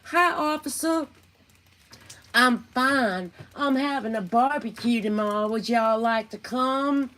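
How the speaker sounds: mock cheerful southern hostess; sweet fake innocence. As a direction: play the innocent hostess to the cops. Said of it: "she'd be like".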